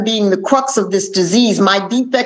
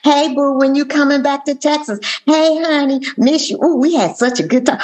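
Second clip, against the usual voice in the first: higher, sweet flirty women's voicemails; 6 semitones higher than usual. Retold or imitated. Rival women on his voicemail, higher and flirty. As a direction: coo it like the other women leaving messages. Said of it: "I'm hearing all these women".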